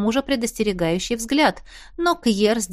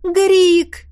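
much higher, loud delighted cry; joyful exclamation; 10 semitones higher, 7 dB louder than usual. A narrator's reading. Donna greets an old friend behind her, joyful cry. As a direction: cry out in happy recognition. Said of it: "радостно воскликнула".

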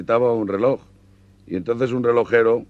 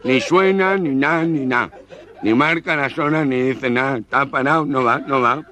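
nasal voice; 3 semitones higher than usual. Acted. Nasal-voiced customer complaining.

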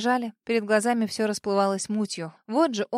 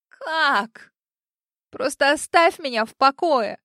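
higher, louder plea to be left alone; desperate shout; 4 semitones higher, 6 dB louder, slower than usual. A narrator's reading. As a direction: yell it through tears. Heroine screams at the lawyer.

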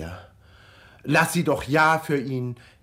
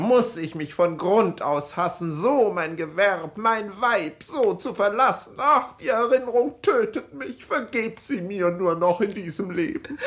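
dying husband; 9 semitones higher than usual. Retold or imitated. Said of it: "rief er".

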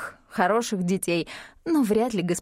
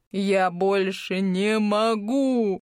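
despairing wail; much slower than usual. Acted. Cries, head in hands.

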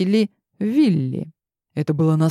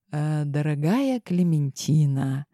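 cautious; slower than usual. Acted. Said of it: "начал издалека Адриас".

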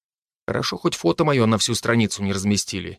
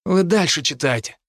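ominous voice; 3 semitones higher than usual. Acted. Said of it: "сказал зловещим голосом Хинниган".

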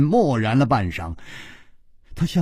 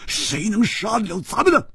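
higher and louder, boastful; much higher, cocky loud agreement; loudly; 11 semitones higher than usual. A narrator's reading. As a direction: brag it out loud. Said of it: "胡铁花大声说".

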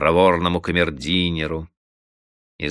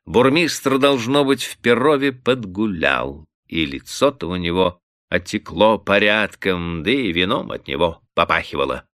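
plain reading voice

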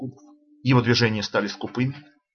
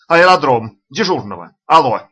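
much louder calls into the phone; excited calling; 3 semitones higher, 8 dB louder than usual. A narrator's reading. Lavrov shouting into the radiophone, excited. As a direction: shout for the airfield. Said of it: "его возбуждённый голос".

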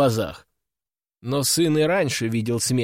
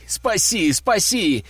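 desperate yell; 5 semitones higher, slower than usual. A narrator's reading. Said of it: "продолжал орать сын".

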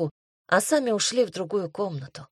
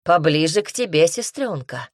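plain reading voice

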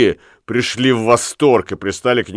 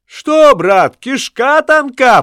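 higher, slow mocking echo, "тонка" stretched; echoed taunt; 6 dB louder, slower than usual. A narrator's reading. Lamme echoes Ulenspiegel's taunt at the bargeman. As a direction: echo the jeer louder. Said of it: "подхватил Ламме".

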